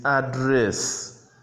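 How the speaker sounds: "address" with stress on the second syllable; slow "address", leaning on the final syllable; verb pronunciation. Shown as a demonstration. Teacher gives the pronunciation for the verb, second-syllable stress on "Address". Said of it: "the pronunciation for the verb".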